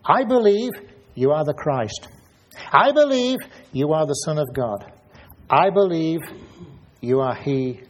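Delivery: Martha's ardent statement of faith; fervent confession. Acted. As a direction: declare each belief with fire. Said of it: "she makes three statements about him".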